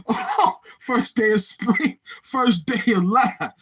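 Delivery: real laughter stretching the words; helpless laughing. Real, not acted. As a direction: struggle to talk while cracking up. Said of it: "I can't stop laughing".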